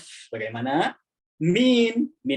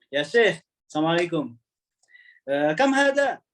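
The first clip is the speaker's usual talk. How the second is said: forceful Arab tone; 3 semitones higher than usual. Shown as a demonstration. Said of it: "Kayak marah gitu kan tadi kan".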